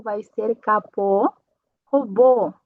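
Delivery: capô and robô with a closed ô, slowly; closed O demo. Shown as a demonstration. Teacher showing students the closed O, slowly. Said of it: "mas fechado".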